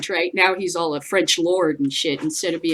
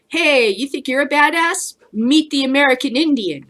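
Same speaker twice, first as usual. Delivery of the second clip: mock challenge; 5 semitones higher than usual. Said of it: "I would go".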